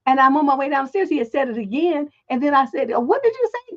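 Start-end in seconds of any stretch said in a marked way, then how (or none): 2.9-3.8 much higher, disbelieving retold question; incredulous. Mother hearing the boy cuss again, mock incredulity. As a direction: ask as if doubting your own ears. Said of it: "did I really hear what I thought I heard".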